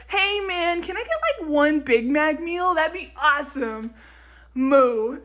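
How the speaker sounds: lightly voiced laid-back dude cow; American cow. Imitating an American cow ordering a Big Mac. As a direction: play a chill cow ordering fast food. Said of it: "American cows be like".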